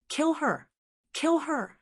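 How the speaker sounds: high, chanting demon mob; roaring demon crowd. Acted. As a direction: roar it as a bloodthirsty crowd. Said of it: "stood up and roared".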